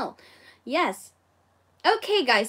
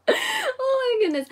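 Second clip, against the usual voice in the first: surprised exclamation; 10 semitones higher than usual. Real, not acted. Laughs at her own slip.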